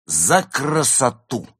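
high, loud, slow ringing toast; exclaimed toast. Acted. Tipsy actress raising a glass to beauty, exclaimed. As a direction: cry it out with drawn-out grandeur. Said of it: "воскликнула Изольда".

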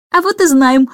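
put-on boy happily greets the old aunt, exclaiming; lightly voiced eager boy. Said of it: "воскликнул Майкл".

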